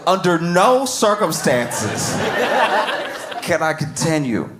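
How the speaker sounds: slow, drawn-out mock solemn reading. Comic mocking the lawyer's excuse, slow and grave. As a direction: stretch it out like a grave statement. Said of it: "This man's paying you millions".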